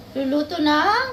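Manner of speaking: very high, loud, slow drawn-out cry; hammed-up wailing reveal; dramatic announcement. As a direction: stretch it out like a game show reveal.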